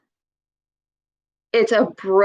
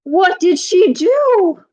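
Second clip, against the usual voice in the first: high, louder, eager question; mock excited mother; eager mom; 8 semitones higher, 4 dB louder than usual. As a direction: lean in, dying to know. Mom eager to hear more.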